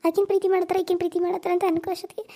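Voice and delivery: weeping daughter-in-law pouring out her hurt; crying. Acted. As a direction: sob out the complaint, voice breaking. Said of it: "ಅಯ್ಯೋ, ಅಳ್ಬೇಡ".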